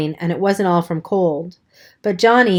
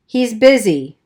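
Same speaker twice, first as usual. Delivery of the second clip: snapped; 3 semitones higher, 3 dB louder, slower than usual. Acted. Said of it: "Buck snapped".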